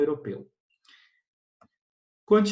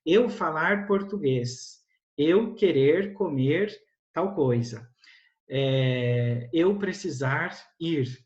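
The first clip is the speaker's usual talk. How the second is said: beginner learner; much slower than usual. Shown as a demonstration. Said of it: "você vai falar coisas desse tipo".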